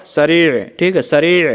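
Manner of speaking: सरीअ ending on an Arabic ayn; final ayn sound. Shown as a demonstration. Teacher showing learners the word for fast, सरीअ with final ayn. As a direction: finish सरीअ with a throat ayn, not a simple vowel. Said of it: "ये last में जो मैं आ लगा देता हूँ इसका मतलब ऐन होता है".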